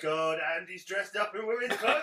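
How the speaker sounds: loud, laughing exclamation; laughing punchline. Retold or imitated. To the co-hosts, laughing at the catfish reveal. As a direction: burst out laughing through it.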